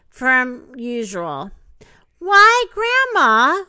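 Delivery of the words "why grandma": high, loud, drawn-out astonishment; surprised. A narrator's reading. Girl puzzled by grandma in bed, openly surprised. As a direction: exclaim slowly, pitched up in surprise. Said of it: "in surprise".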